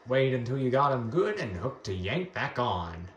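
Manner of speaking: a playful hint of a down-home fishing guide; funny voice. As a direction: read the tutorial like a hammed-up old country angler, only lightly. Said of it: "I was reading in a funny voice".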